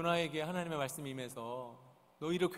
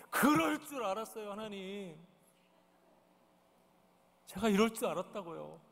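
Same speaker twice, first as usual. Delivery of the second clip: acted indignant protest, strong start then easing; mock exasperated protest; angry complaint. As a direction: complain to God like a peeved prophet. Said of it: "몹시 분을 내잖아요".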